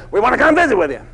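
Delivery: an exasperated owner spelling it out; insistent. Retold or imitated. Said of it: "And he goes".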